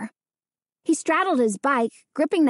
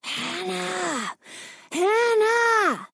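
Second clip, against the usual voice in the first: shout; 7 semitones higher, much slower than usual. A narrator's reading. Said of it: "Its whisper became a shout".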